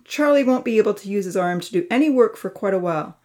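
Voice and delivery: stern, harsh telling-off; harsh scolding. Acted. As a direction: lay into them like a disappointed uncle. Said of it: "speak so harshly".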